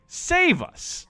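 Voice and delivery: high, far little cry for help; lightly voiced plea; mock plea. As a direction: squeak it like a desperate islander. Quoting islanders' plea.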